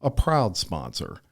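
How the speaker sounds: measured, friendly podcast ad read; sponsor ad read. Acted. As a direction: read it as a polished sponsor spot. Reads a sponsor ad.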